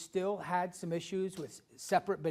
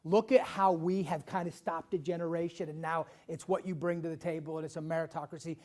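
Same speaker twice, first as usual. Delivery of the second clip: imagined proud boast; 4 dB louder than usual. Retold or imitated. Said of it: "of saying".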